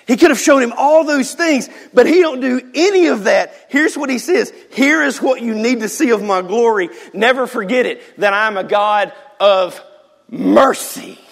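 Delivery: high, loud proclamation; fervent preaching. Real, not acted. Preacher proclaiming God's mercy to church, loud. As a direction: drive the point home. Climax of sermon point.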